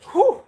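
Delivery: short, high puff of breath; tired whew. Real, not acted. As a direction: let out a real winded whew. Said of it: "I'm definitely tired".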